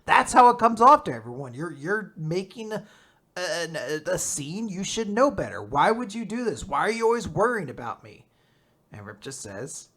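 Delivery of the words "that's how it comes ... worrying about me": mildly heated scolding; Latla angry. Retold or imitated. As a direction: imitate an indignant telling-off, a touch raised. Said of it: "legitimately very angry in this moment".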